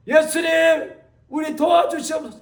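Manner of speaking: mock pleading. Frightened disciples cry for help.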